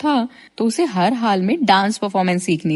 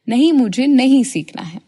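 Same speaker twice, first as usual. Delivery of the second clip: louder, clipped no; curt refusal; 3 semitones higher, 5 dB louder than usual. Acted. Madhu refusing her friend's offer, curt and louder. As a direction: shut her down flatly.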